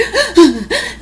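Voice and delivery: sharp high gasp mid-sob; sobbing gasp. Retold or imitated. Sixth-grader gasping while crying to her teacher. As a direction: gulp in air on a rising sob. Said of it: "through tears".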